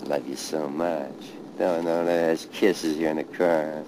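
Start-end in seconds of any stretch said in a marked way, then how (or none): 0.0-1.1 slow, tender goodbye; slow loving farewell. Real, not acted. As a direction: say it softly to a lost father. Tender farewell to dead father.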